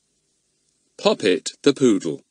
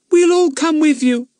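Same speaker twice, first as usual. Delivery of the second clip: loyal; 8 dB louder than usual. A narrator's reading. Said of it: "said Bets loyally".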